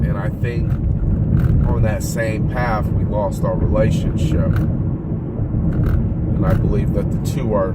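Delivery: slow, with drawn-out phrase endings; long pauses between thoughts; slow speech. Real, not acted. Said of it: "Sorry I'm speaking so slow".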